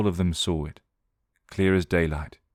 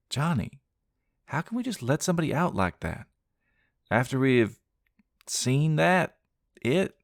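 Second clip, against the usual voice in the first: heartsick plea; 9 semitones higher than usual. Acted. Sandra begging her brother, high and heartsick. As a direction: plead with a sinking heart. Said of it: "Sandra's heart sank".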